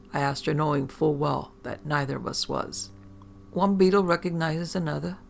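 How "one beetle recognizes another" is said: put-on Irish accent. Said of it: "she retorted in a beautiful Irish accent".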